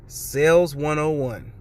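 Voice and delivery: Sales one oh one spoken slowly, every word drawn out. Shown as a demonstration. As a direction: draw out Sales one oh one like a wise punchline.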